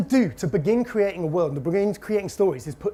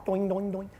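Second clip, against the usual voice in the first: boinging noises, softer than speech; spring sound effect; 8 dB quieter than usual. Pretend. Presenter getting rid of the spring bit, boinging softly. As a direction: imitate a spring bouncing away. Imitates breaking off and discarding spring.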